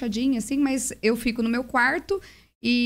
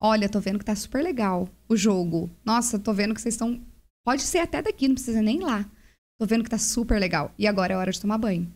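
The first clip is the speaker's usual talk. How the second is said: calm advice. Retold or imitated. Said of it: "Daí eu falei assim".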